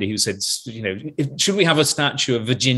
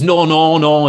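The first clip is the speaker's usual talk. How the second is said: imitated Lancashire sound man, louder; Lancashire accent; 3 semitones higher, 7 dB louder, slower than usual. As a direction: put on a Lancashire accent in protest. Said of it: "talked in a sort of Lancashire accent".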